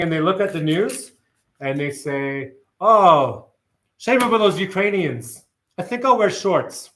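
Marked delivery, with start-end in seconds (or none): 2.8-6.9 lightly voiced laid-back Kiwi, higher; a hint of a carefree New Zealander; broad Kiwi accent. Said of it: "this is my impression of a Kiwi waking up in the morning".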